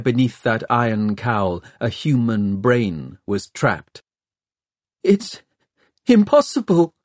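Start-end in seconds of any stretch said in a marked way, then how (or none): 5.0-6.9 much higher, trembling whimper; a terrified boy who can't believe it; frightened whimper. A narrator's reading. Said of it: "Tom whimpered".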